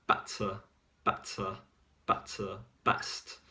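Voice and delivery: "Better" and "best" with a short, punchy B; "better", "best" with a crisp, intense B. Shown as a demonstration. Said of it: "short and intense".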